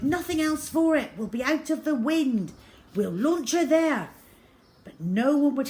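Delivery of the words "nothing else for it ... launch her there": loud, decided orders over the wind; determined call. A narrator's reading. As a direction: push the crew to act. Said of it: "he cried".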